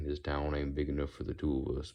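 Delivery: put-on lightly done Western line in a Southern accent. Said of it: "I can use reference material like".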